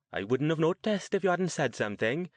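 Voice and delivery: high-pitched voice of a woman about sixty; older woman character. Acted. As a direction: play an older lady, pitched well up.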